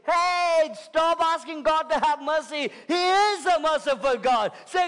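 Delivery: high, loud preacher's rebuke; shouted rebuke. Acted. Preacher correcting his congregation's prayers, shouted rebuke.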